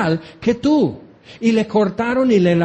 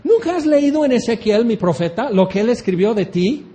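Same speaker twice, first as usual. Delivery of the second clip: a higher voice of God hailing Gog; God addressing Gog; 3 semitones higher than usual. Acted. God challenges Gog, raised voice. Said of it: "él dirá en ese momento".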